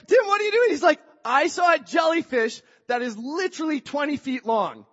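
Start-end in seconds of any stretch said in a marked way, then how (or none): 0.1-0.7 high, loud call after a friend; acted-out frantic question; bewildered shout. Yells at friend fleeing past. 1.2-4.9 raised, emphatic retold outcry; acted-out urgent explanation, starting high; alarmed report. Friend excitedly reports giant jellyfish.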